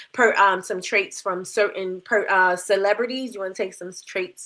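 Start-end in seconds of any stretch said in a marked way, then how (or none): 3.3-4.4 lisping around a new retainer; wearing a retainer. Real, not acted. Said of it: "I got my new retainer in".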